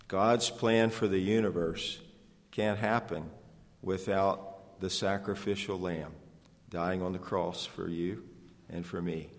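"God's plan" dicho cada vez más bajo y lento; hushed and solemn. Acted.

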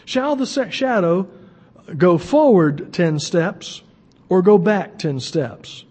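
measured, solemn Bible reading; scripture reading. Acted. Pastor reading the passage to the congregation, solemn. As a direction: read the passage with weight.

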